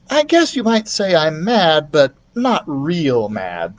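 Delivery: put-on slow thoughtful boy; boy weighing his words; lightly voiced boy, slow at the end; boy's voice. Keith voiced.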